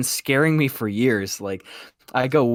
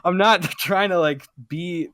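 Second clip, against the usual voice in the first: laughing; 8 semitones higher, 3 dB louder than usual. Real, not acted. Laughing while retelling a defence.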